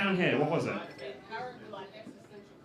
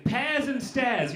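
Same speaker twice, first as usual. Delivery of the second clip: mock drunk slur; much slower than usual. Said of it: "You're very drunk".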